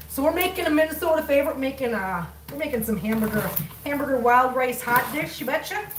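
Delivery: put-on broad Minnesota accent with folksy phrases. Home cook tells viewers about a Minnesota favorite, Minnesota accent. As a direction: lay on a playful Minnesota accent. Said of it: "That's what happens when you're from Minnesota".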